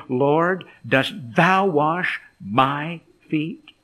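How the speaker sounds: slow, disbelieving question; surprised. Acted. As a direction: spread the words out in surprise, rising at the end. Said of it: "You notice Peter's surprise".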